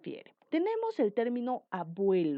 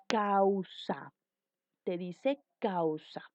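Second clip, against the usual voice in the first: slow vowel demo; much slower than usual. Shown as a demonstration. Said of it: "Dos sílabas".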